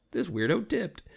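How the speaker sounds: high-pitched mocking quote; light, high mock taunt; pretend jeering. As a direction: make fun like a pointing onlooker. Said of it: "point and laugh".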